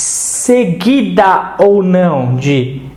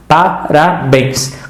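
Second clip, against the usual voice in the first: Parabéns said slowly, syllable by syllable, pa-ra-béns; split into syllables; 2 semitones lower, much slower than usual. Shown as a demonstration. Teacher splits the word for students, slow syllables. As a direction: spell out Parabéns in slow beats. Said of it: "Separa agora pa-, parabéns".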